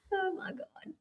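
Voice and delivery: breathy embarrassed whisper; whispered oh my God. Real, not acted. Mom whispering after revealing her son's age, hushed. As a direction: hush it as if caught out.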